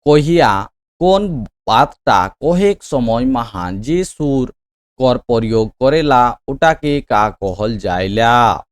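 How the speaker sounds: very slow, projected reading aloud; drawn-out classroom dictation, firmly voiced; quiz question read-out. Real, not acted. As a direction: spell out the question word by word. Repeats question slowly aloud.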